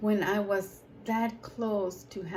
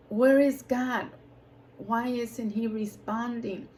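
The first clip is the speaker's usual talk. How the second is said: rhetorical cry; 3 semitones higher, 4 dB louder than usual. Acted.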